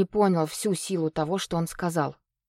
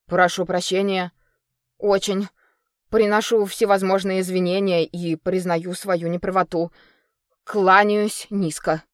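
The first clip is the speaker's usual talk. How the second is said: gurgling alien voice. Acted. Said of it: "пробулькала трясина".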